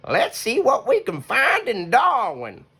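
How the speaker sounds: high, bright-voiced old possum planning; cheerful grandma voice. Grandma Poss suggests Darwin to Hush, high cheerful voice. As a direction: sound keen about Darwin. Grandma plans next stop.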